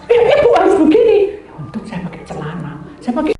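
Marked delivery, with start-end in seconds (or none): 0.1-1.2 high, loud, fast directing; imitated insistent instruction. Rider shows confused passenger how to sit, imitated insistent instruction. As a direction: rattle out the order in a raised voice.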